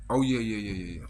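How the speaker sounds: mumbled through a bite; chewing. Real, not acted. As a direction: mouth full of apple. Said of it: "forgive me for eating".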